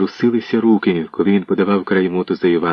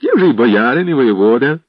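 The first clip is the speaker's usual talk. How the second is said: mocking laugh; 4 semitones higher, 4 dB louder than usual. A narrator's reading. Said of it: "зареготав Іванко".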